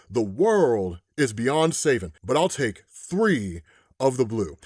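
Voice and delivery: weary gunslinger, unhurried; western voice. Retold or imitated. The man in white orders whiskey from the bartender, slow and low. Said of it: "I'm gonna put on a Western voice here".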